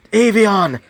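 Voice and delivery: high-pitched cry calling forth demons; summoning call. Acted. Character calls out demons' names.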